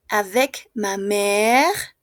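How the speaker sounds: mère stretched out slowly, ending on the r; silent final e. Shown as a demonstration. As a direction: draw out mère, with no vowel after the r. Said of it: "no se pronuncia".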